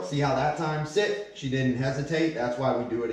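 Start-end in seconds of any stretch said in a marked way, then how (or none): 0.9-1.3 high, sharp heel command; firm dog commands. Real, not acted. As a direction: snap the order at the dog.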